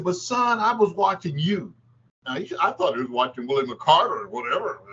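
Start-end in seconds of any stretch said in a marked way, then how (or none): 0.0-1.7 Red Auerbach voice. Retold or imitated. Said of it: "He said".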